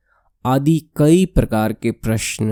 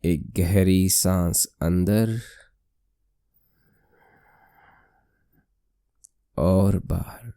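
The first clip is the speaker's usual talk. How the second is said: slow, slightly softened meditation voice; guided meditation; 4 dB quieter, slower than usual. Acted. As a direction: lead the breath slowly, with long pauses. (धीमी, शांत ध्यान कराने वाली आवाज़)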